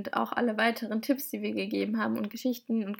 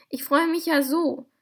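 higher, overjoyed storybook call; delighted exclamation; 5 semitones higher, 6 dB louder than usual. A narrator's reading. Little man welcoming Julia, exclaiming with delight. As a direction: cry out with acted delight. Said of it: "rief er".

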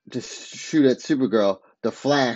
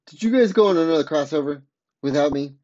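higher, quick incredulous question; mock indignant; 4 semitones higher, faster than usual. Ray asks about another crossover, mock indignant. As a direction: lightly act out feeling left out.

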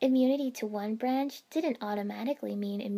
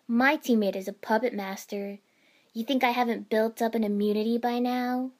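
defiant; 6 dB louder than usual. Acted. Temari defiantly retorting mid-fight.

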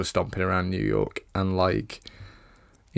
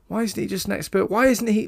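incredulous; 11 semitones higher, faster than usual. Real, not acted. Incredulous rant about Broderick.

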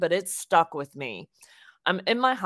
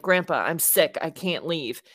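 retold protest with a touch of exasperation; mild frustration. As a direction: push back at grandpa, a little fed up. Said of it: "I get frustrated".

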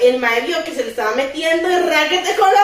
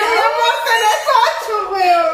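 higher, sweet, patronizing mom voice; condescending mom; 6 semitones higher, slower than usual. Retold or imitated. Mother answers her eight-year-old who claims to be man of the house, sugary and patronizing. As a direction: talk down to the little boy sweetly. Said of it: "y yo".

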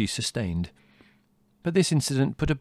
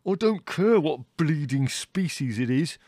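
slow, higher angry snarl; 6 semitones higher, slower than usual. Acted. Brother to young naturalist, snarling over horn species. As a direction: snarl every word at him. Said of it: "snarled Leslie".

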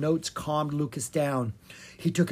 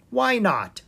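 lightly amused, higher-pitched reply; with a smile; 8 semitones higher, 4 dB louder than usual. A narrator's reading. Bard agrees to give the dog a break, smiling. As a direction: say it through a smile. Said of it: "Will said with a smile".

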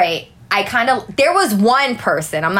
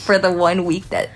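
mock solemn; 3 semitones lower than usual. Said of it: "take a moment of silence".

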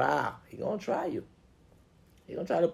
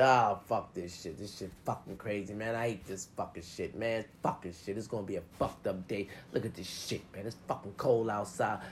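grumpy morning rant. Retold or imitated. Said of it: "If you wake up and say".

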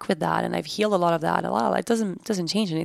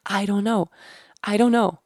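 inner voice; 3 semitones higher than usual. Retold or imitated. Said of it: "but it was just".

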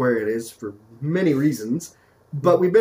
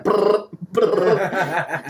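mock static noise; 3 semitones higher than usual. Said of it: "just a shaky camera".

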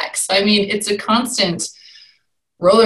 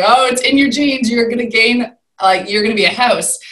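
imitating her mother; 4 semitones higher, 4 dB louder than usual. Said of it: "and she kept saying".

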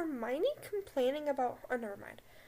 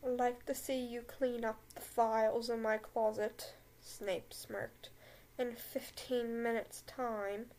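Snape voice again; 2 semitones lower than usual. Acted. Snape ordering Hermione to the closet, light slow smirk. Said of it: "Let's read this line again".

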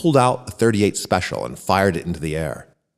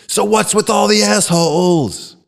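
much higher, louder gleeful yell; 12 semitones higher, 4 dB louder than usual. Acted. A student yells the message into the microphone at a protest, loud and high. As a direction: shout it out to rally the crowd. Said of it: "then yelled".

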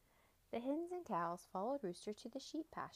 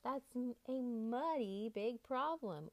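oinking pig; 4 semitones higher, 3 dB louder, slower than usual. Acted. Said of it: "oinked the pigs".

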